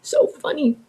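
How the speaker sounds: dry mocking so funny; sarcastic. Real, not acted. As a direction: say it with an eye roll. Sarcastic comment.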